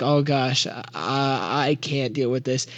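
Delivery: pinched-nose voice; holding nose. Acted. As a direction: talk with nose plugged. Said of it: "plugs his nose and is like".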